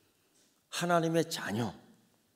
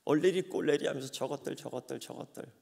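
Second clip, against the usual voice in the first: mocking taunt. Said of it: "얼마나 놀리겠어요".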